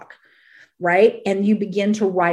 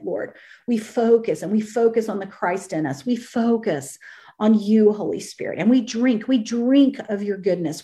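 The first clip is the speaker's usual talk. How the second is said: earnest spoken prayer, unhurried. Acted. Preacher praying over her online listeners, earnest. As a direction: pray aloud over the listeners.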